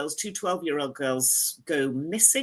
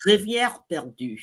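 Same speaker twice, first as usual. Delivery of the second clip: French title repeated in a French accent, higher; 3 semitones higher, 3 dB louder than usual. Shown as a demonstration. Host repeats the title for a friend, in best French accent. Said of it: "My best French accent".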